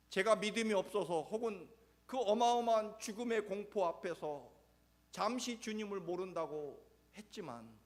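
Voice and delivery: high, loud, pained admission; pleading Peter; anguished confession. Acted. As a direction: confess the failure with a breaking heart. Peter confessing his fear.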